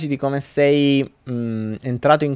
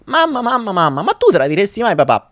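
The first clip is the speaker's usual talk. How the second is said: put-on child calling; 7 semitones higher than usual. Pierino calls mother.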